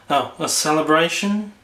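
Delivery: sag into Eeyore's gloom; gloomy Eeyore. Acted. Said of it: "That's better".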